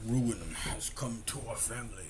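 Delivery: slow, grave storyteller quote; ominous narrator voice. Retold or imitated. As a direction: intone it like a doom-laden ancestor. Quoting the game's ominous narrator.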